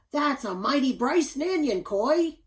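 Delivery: loud, high, flustered booming slip of the tongue; a big lumberjack tripping over his words; tongue-tied giant dad. A narrator's reading. Tongue-tied father bellows at his son, loud and high. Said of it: "Pa Bunyan got tongue-tied and said".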